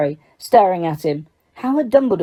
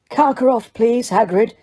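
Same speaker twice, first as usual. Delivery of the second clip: sharp; 4 semitones higher than usual. A narrator's reading. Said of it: "said Dumbledore sharply".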